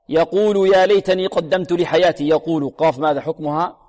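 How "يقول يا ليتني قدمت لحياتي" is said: sustained tajweed recitation, a bit raised; Quran recitation. Shown as a demonstration. Teacher recites the next verse, sustained recitation. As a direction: recite it measured and resonant.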